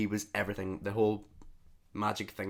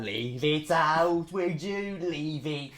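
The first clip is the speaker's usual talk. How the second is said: slow, drawn-out scolding of a pet; telling off the cat; 7 semitones higher, 3 dB louder, much slower than usual. Real, not acted. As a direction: drag it out to stop the cat.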